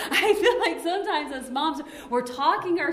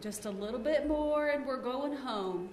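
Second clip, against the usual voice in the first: put-on soft, slow reassurance to a fussy toddler; softly soothing a crying toddler; calm soothing mom; 5 dB quieter, slower than usual. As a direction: hush it gently, like a patient mother.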